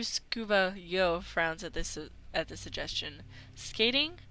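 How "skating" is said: surprised question. Acted. Yo questions the suggestion.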